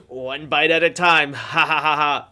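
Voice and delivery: put-on slow drunk punchline, then a laugh; a hint of a tipsy man chuckling at his wisdom. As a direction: drag it out, then laugh at your own joke. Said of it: "he's really drunk".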